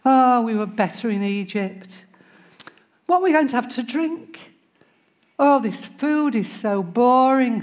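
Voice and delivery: mock whining complaint, slowing on same day in, same day out; a put-upon moan about boring food; grumbling Israelites. Preacher mimics Israelites grumbling in the wilderness, mock whine. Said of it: "the Israelites grumbling in the wilderness".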